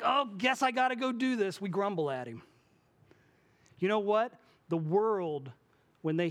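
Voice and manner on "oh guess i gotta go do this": reluctant sigh. Retold or imitated. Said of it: "when we're like".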